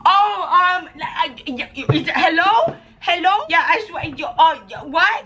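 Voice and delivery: high, stammering panic at awkward moment; flustered panic. Pretend. Daughter flustered by parents on screen, panicky stammer. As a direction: squeak out a startled, stuttering hello. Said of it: "I'm gonna be like".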